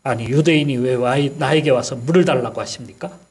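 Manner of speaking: a mild, understated snap back; snapping retort. Retold or imitated. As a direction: retell her sharp reply, barely acted. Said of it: "이렇게 쏘아붙였던 거예요". (가볍게 쏘아붙이는 말투)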